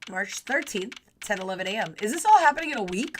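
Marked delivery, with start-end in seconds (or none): 2.0-3.2 fast, high disbelief; excited. Real, not acted. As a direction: blurt it out, amazed. Player surprised at fast plot.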